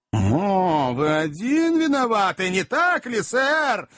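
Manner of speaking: high, rising jealous outburst; sarcastic challenge climbing in pitch; accusing taunt. A narrator's reading. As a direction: pounce on the admission. Magnus taunts Pickwick.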